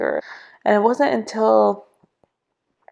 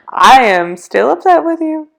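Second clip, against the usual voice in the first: raised, high-pitched retold complaint; angry prayer; 7 semitones higher, 6 dB louder than usual. Telling God she is upset, angry. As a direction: protest loudly, as if confronting God. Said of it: "angry, and I was just like".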